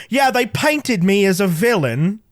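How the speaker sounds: lightly imitated English accent, drawn out; slow, relaxed English accent impression; Gary Oldman. Actor recalling his villain casting, in a mild English accent. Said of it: "his normal Gary Oldman voice".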